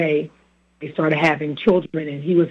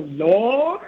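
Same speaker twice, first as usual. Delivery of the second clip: Lord with several notes; 5 semitones higher than usual. Retold or imitated. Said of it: "like it had about three different, like, notes to it".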